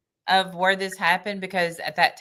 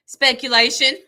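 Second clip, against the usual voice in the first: mock objection; 6 semitones higher, 6 dB louder than usual. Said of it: "spoke up and said".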